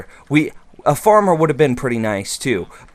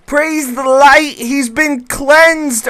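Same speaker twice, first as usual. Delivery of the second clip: mock holy proclamation; 12 semitones higher, 5 dB louder, much slower than usual. Villager cured, mock holy cheer.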